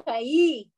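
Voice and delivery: chayi with a throaty ch at the start; Hebrew chayi. Shown as a demonstration. Teacher sounds out chayi for a student.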